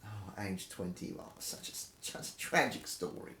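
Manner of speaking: hushed, breathy mock grief; mock sorrow. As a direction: sigh it like a tragedy. Mock grief aside, whispered.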